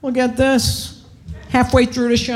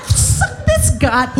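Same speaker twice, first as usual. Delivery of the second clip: whispered comeback; 5 semitones higher, slower than usual. Retold or imitated. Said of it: "I'm like".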